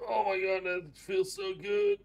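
blissful slow sigh of relief; relieved stretch. Real, not acted. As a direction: let the stretch melt out of you.

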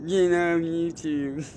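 slow, drawn-out whiny mockery. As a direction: drag it out like a sulky kid. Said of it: "His little whiny voice".

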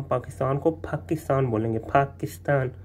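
"पाकिस्तान" with a breathy ph at the start; aspirated p. Shown as a demonstration. Teacher shows the Norwegian aspirated p, carefully. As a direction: say "पाकिस्तान" with a puff of air on p. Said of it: "फे वाली आवाज़ है".

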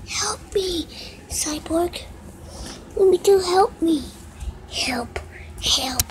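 breathy whisper for help; whispered plea. Acted. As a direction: beg softly like a trapped toy. Toy character calls for help.

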